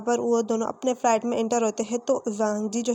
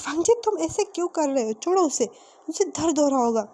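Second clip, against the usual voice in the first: higher-pitched acted pleading; urgent protest; 5 semitones higher than usual. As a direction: step in to stop a friend hurting someone. Friend intervenes in hair pulling.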